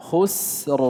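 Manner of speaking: خسر closing on a thick r; heavy final ra. Shown as a demonstration. Teacher shows ra at a pause, heavy final ra. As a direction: stop on a heavy, vowelless ra in خسر. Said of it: "فحكم الراء التفخيم".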